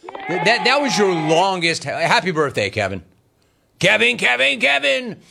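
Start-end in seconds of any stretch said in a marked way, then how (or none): 3.8-5.2 sing-song call. Acted. Host calls out caller's name.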